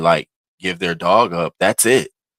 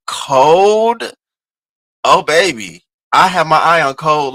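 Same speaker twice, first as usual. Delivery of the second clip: sassy; 8 semitones higher, 7 dB louder, slower than usual. Real, not acted. Gossiping about messy player.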